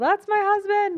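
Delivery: very high-pitched, delighted yell. Retelling cheering at a baseball game: imitating own yell. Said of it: "my favorite thing to do is yell".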